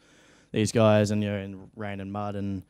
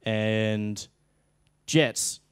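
drawn-out called cue, louder on jets; director's cue call; 3 dB louder than usual. Retold or imitated. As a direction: call the cue over a PA mid-scene. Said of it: "he'd go".

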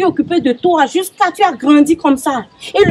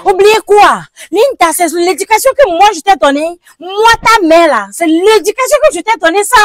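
angry scolding; 5 semitones higher, 3 dB louder than usual. Acted. Mother confronts daughter over boyfriend.

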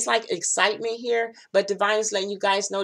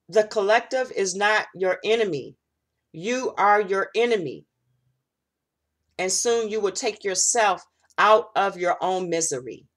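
solemn spirit message. Acted. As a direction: pronounce it like an oracle. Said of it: "the message is".

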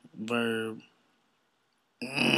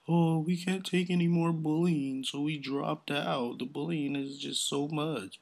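higher, drawn-out mocking complaint; mock whiny kids; 6 semitones higher, 4 dB louder, slower than usual. Imitating kids who blame bullying for dropping out, mock whining. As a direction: put on a pitiful kids' plea, slowing down. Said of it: "talking about the kids".

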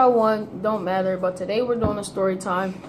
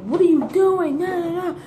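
high, whiny mock outrage; playful retold protest trailing into nah-nah; mock angry protest; 8 semitones higher, 3 dB louder than usual. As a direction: imitate a mad complaint, pitched up. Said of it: "Then he started getting mad".

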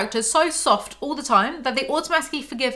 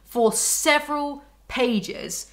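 exasperated drawl; 4 semitones higher, much slower than usual. Real, not acted. Exasperated complaint.

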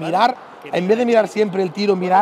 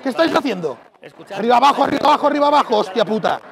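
angry coach yelling. Real, not acted. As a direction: bark at the players in anger. Coach yelling at team in timeout.

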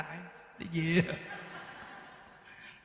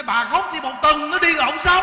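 forceful urging; 4 semitones higher, 10 dB louder than usual. Retold or imitated. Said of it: "Những Đức nói".

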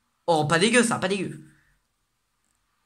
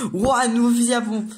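louder, higher wowed exclamation; thrilled at a new discovery; excited; 4 semitones higher, 4 dB louder than usual. Real, not acted. Reacting to the new shotgun. (enthousiaste, émerveillé)

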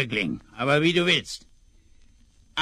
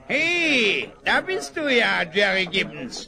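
calling out; 9 semitones higher, 4 dB louder than usual. Acted. Greeting arriving friend loudly.

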